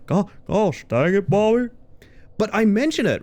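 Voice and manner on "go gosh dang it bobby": high cartoon Southern dad, half laughing; Hank Hill. Streamer agreeing the voice fits, cartoon dad impression. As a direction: put on an exasperated cartoon dad. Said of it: "It's extremely Hank Hill".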